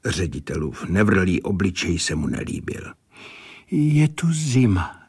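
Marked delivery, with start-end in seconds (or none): 3.7-5.0 abrupt higher-pitched statement; clairvoyant's sudden pronouncement, higher; sudden remark. A narrator's reading. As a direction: come out with it unprompted, pitch raised. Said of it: "řekla náhle Jasnovitka".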